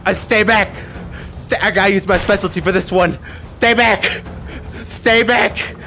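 high, loud panicked command; hammed-up frightened yelling; alarmed warning. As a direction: ward off a monster with shouts. Fending off Shrek in game.

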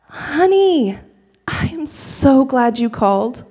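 high lilting first word, then settling gently; delighted, tender mother on the phone; mom's tender welcome. Retold or imitated. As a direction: greet your child with relief and affection. Mom greets estranged daughter.

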